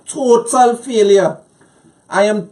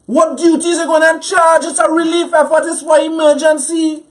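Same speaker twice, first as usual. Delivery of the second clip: pitched up, indignant demand; mad; 5 semitones higher than usual. Real, not acted. Guest challenging the tax on relief goods, angry. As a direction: demand an answer, outraged. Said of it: "I'm mad. I'm pissed".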